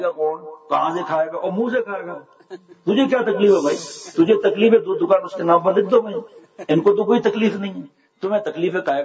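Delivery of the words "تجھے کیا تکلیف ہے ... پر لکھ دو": mock angry rebuke. Rebuking those who question scholars' food.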